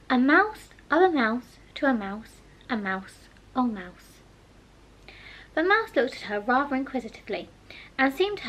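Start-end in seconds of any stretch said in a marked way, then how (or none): 0.1-4.2 singsong, fading recitation; reciting Latin grammar. Acted. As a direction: chant it like a declension drill. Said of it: "her brother's Latin grammar".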